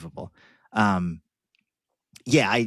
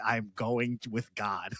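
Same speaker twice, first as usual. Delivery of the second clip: slow, soft, serene little alien; 6 dB quieter, slower than usual. Retold or imitated. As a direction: calmly accept fate, slowly. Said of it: "And he's like".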